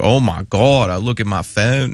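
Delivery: imitating a Pittsburgh Yinzer accent; mock Yinzer-fied talk. Host imitating a player getting his free agent call, Yinzer accent. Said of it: "He's got a very Yinzer, Yinzer-fied accent".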